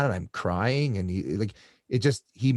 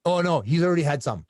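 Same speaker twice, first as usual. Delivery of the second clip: higher-pitched, hurried-in objection, acted out; breezy fib, imitated; 7 semitones higher, 4 dB louder than usual. Friend lying to nurses to hold off morphine, imitated breezy fib. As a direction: wave them off with a cover story.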